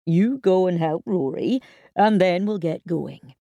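gentle. Acted. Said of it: "he added gently".

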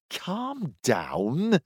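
quiet, half-smiling; soft amused calm-down. A narrator's reading. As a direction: soothe him with a smirk. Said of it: "a half smile playing across his face".

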